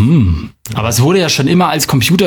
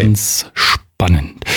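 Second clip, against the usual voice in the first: lower, slow tense commentary; hushed golf commentator; 6 semitones lower, much slower than usual. Acted. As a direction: drag it out like a golf broadcast. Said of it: "wie so ein Golfkommentator".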